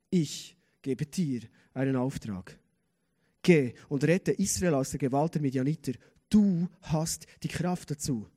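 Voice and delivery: deep, deliberate divine voice; the Lord. Acted. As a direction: speak as God giving a solemn charge. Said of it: "Der Herr".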